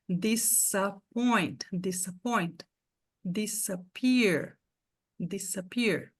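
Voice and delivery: disappoint and disappear stretched slowly, with a hard S; slow English demo. Shown as a demonstration. Teacher modelling disappoint and disappear slowly. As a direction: drag each word out, crisp S. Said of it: "o S tem som de S".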